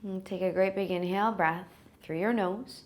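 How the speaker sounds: unhurried calming voice with long pauses; guided meditation. Real, not acted. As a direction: ease them gently into rest. Settles listeners into the meditation.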